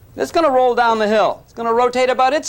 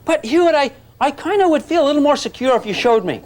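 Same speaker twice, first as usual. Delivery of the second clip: higher, lightly voiced insecure student; a hint of a whiny student; mock pleading student; 6 semitones higher than usual. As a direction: play a timid student asking. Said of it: "how many say".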